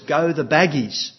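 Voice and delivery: put-on a loud little-kid shout of the team name; loud toddler cheer. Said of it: "he says in a loud voice".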